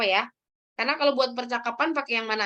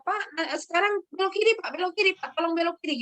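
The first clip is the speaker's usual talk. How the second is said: higher, patient passenger guiding the driver; passenger explaining; 5 semitones higher, faster than usual. Retold or imitated. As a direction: explain the turn to the driver again. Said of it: "diterangin lagi sama dia".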